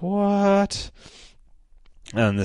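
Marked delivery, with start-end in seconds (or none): 0.0-0.9 high, yelped disbelief; shocked what. Real, not acted. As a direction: squeak out the shock. Reacting to the twist.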